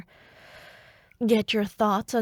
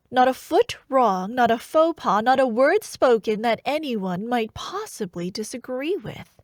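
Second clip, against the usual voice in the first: mock admiration; 2 semitones higher, 5 dB louder than usual.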